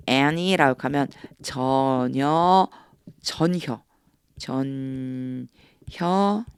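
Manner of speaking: drawn out, each word weighed; slow emphasis. Shown as a demonstration. Teacher stressing that nothing at all is left. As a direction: lean hard on 전혀 and 조금도. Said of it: "slow emphatic explanation".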